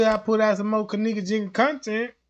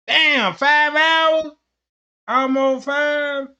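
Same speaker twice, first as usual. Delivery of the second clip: surprised; 7 semitones higher, 6 dB louder, much slower than usual. Real, not acted. Surprised at stream length.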